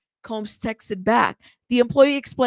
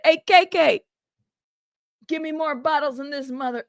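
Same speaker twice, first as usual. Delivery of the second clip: the way he said it; 4 semitones higher than usual. Retold or imitated. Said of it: "it's the way he said it".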